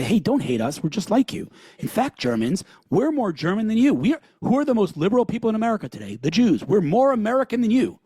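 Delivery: high, eager voice asking to be liked; mock pleading Jews. Guest mocking Jews who beg their hosts not to hate them, high pleading voice. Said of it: "we come and we say".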